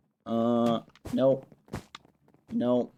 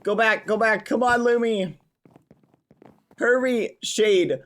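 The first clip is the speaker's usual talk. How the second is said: urgent hurry; 7 semitones higher, slower than usual. Real, not acted. Rushing pets through maze.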